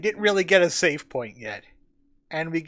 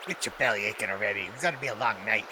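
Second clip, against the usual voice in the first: grumbling guard; 9 semitones lower, 5 dB quieter, much faster than usual. Acted.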